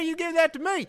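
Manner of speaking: high squeaky puppet voice; squeaky ventriloquist dummy. Pretend. Mock quote, high squeaky voice.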